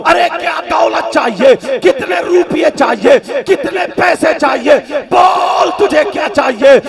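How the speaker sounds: brash boastful rich man shouting; mock arrogant don, shouted. Villain boasts to the girl.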